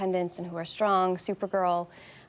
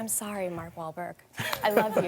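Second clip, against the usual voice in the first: laughing. Retold or imitated. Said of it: "I'm like".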